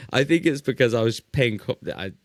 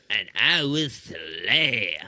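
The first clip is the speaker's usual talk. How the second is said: put-on slow, drawn-out French accent; mock French accent; much slower than usual. Friend echoing Laban's threat in a mock French accent. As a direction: savour each word in a French accent. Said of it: "echoing the French line".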